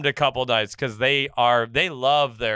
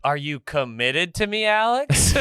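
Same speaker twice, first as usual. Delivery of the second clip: mock Southern belle; 3 semitones higher than usual.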